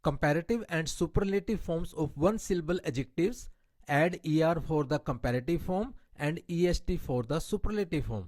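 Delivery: slow, deliberate reading of an English grammar rule. Shown as a demonstration. Teacher reading a grammar rule to her Hindi-speaking class, slow and deliberate. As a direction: spell out the rule word by word for students.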